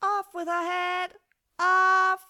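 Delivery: very high, drawn-out queenly shriek; furious scream. A narrator's reading. The Queen turned crimson with fury, screaming.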